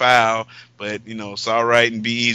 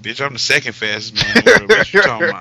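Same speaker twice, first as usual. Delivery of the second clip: indignant retort; 3 semitones higher, 4 dB louder, faster than usual. Acted. Acting out runner-up's indignant retort.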